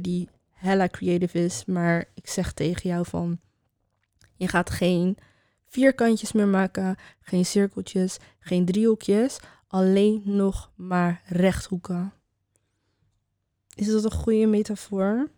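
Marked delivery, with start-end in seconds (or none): 4.4-12.1 slow, hazy stoned speech; drifting slowly, a little high. Real, not acted. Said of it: "ik ben echt high as fuck".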